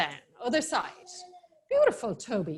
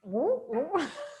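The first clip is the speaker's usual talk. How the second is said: pigeon coo; 2 semitones higher, 5 dB quieter than usual. Shown as a demonstration. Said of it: "what noise do they make".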